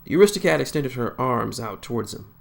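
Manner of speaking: ordinary delivery, nothing marked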